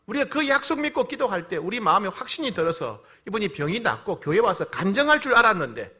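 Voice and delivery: loud, high retold plea to God; crying out in prayer. Pastor appeals to God after a believer's death, crying out. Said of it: "하나님께 하소연하고 하나님께 막 부르짖으며".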